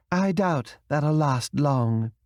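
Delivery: slow, sadly resigned; crumbling dignity. A narrator's reading. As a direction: let her pride start to crack. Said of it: "wall of dignity began to crumble".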